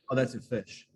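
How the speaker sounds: "fish" said the New Zealand way, toward fush; New Zealand "Oh, that's a fish"; New Zealand accent. Shown as a demonstration. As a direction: say "fish" with a Kiwi short u-like vowel. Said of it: "So we would say".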